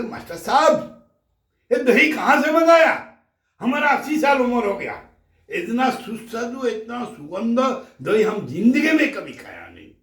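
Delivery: high, loud, amazed praise; an old man marvelling at the curd. Acted. Old guest to the teacher, high and loud with amazement.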